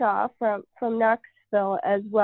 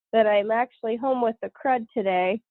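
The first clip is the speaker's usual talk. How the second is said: nasal voice from a cold. Real, not acted. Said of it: "hence the nasally voice".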